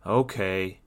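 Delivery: understated, resigned sigh; mildly weary agreement. Acted. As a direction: give in with a small sigh. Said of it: "he sighed".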